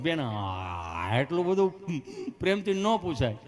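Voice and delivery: slow, halting, drawn-out protest; mock stutter with long stuck sounds; stammering patient. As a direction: struggle through each phrase. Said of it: "એ બેનો વાર્તાલાપ ખાલી જોયા જેવો".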